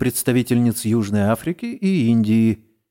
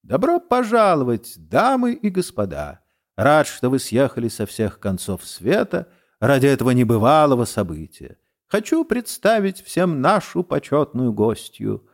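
squeaky voice; 3 semitones higher than usual. Acted. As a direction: squeak it out like a fussy host. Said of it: "обращается к ним писклявым голосом".

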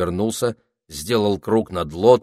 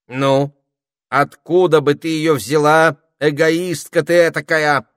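high, loud scolding retort; indignant parrot; 9 semitones higher, 9 dB louder than usual. A narrator's reading. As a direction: snap back at the selfish spider. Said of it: "сказал попугай".

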